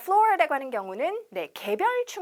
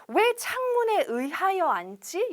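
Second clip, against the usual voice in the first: puzzled; 7 semitones higher than usual. Pretend. Voicing a confused learner.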